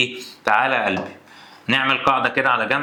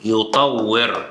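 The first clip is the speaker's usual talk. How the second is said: slow dictation; much slower than usual. Shown as a demonstration. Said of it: "كلمة زي كلمة".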